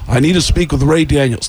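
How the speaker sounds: lightly voiced rock star impression; Gene Simmons. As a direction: lightly impersonate a star on a prank call. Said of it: "I prank called them as Gene Simmons".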